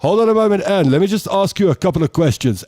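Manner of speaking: a hint of a brisk doctor quizzing a caller; mock radio doctor. Radio professor questioning the mother, lightly voiced brisk doctor.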